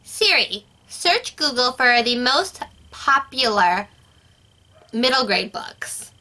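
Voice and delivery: slow, clearly spoken command; talking to voice assistant. Real, not acted. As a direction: spell it out for Siri. Giving Siri a voice command.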